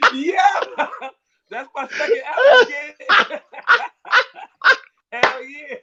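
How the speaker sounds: real laughter in the voice; laughing reply. Real, not acted. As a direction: answer while still cracking up.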